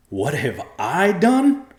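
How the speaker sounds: high, loud, slow venomous retort. A narrator's reading. Joe turning on his wife, loud and venomous. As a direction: throw her words back with venom. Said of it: "turned on his wife with venom".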